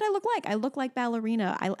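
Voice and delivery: a hint of a little girl; mild child imitation; lightly voiced toddler. Mother correcting what her daughter said, mildly voiced. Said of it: "No, she said".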